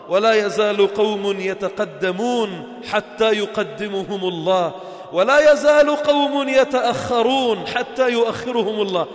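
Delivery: slow, measured hadith recital; drawn-out solemn quotation; solemn recitation. Acted. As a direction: intone each word of the saying slowly.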